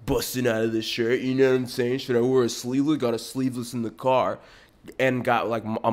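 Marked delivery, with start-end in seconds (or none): 0.1-4.4 loud mock party-bro voice with grunts; imitating a buff bro trying to get girls; douchey gym bro. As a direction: puff it up like a show-off gym tool. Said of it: "dudes that are, like, always in the party".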